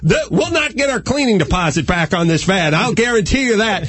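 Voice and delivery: lightly hammed-up boastful announcement; grand proclamation. Friend warns the van of what is coming, mock proclamation. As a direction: proclaim it like a champ warning everyone. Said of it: "halfway into his proclamation".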